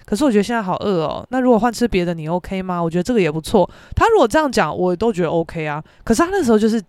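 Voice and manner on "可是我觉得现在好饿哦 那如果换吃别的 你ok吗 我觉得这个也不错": calm normal tone. Shown as a demonstration. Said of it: "他如果是正常口气说".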